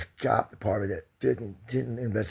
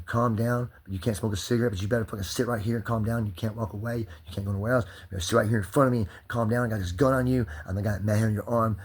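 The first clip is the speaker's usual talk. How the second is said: mock cop; 3 semitones higher, 5 dB louder than usual. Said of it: "You're gonna tell me".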